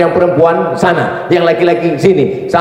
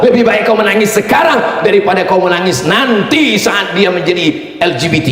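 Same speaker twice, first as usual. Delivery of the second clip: stern shout; 3 semitones higher than usual. Shown as a demonstration. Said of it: "Gini cara bapak nasihatinya".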